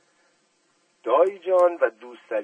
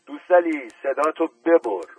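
loud, raised order to shut up; sharp shout; 4 semitones higher, 5 dB louder than usual. A narrator's reading. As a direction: bark him into silence. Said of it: "اسدالله میرزا فریاد زد".

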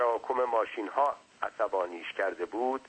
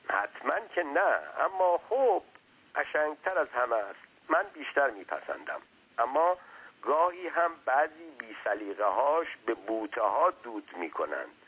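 slightly higher servant's voice; hint of a talkative underling, pitched up; lightly voiced servant; 4 semitones higher than usual. Servant chatting to his master, lightly voiced.

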